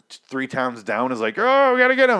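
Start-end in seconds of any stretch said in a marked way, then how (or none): 1.4-2.2 high, loud cartoonish soldier alert; hammed-up NPC shout; mock video game guard. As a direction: squeal it like a dumb game guard catching on.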